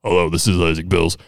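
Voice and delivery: low, softened phone disguise; put-on disguised voice. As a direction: pretend to be someone else on the phone. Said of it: "pretending to be a different guy".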